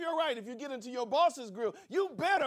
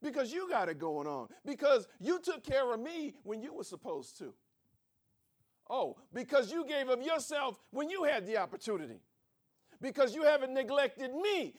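ordinary talk

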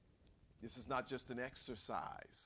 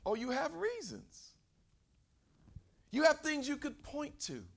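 high, rising preached lines; preaching rise; 8 dB louder than usual. Acted. Preacher conceding to the congregation, rising. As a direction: lift the voice to press the point.

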